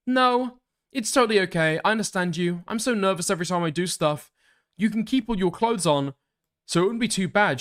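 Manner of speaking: high, gentle texting character; message writer's voice. Acted. Streamer voicing a sender offering a gift, high put-on voice.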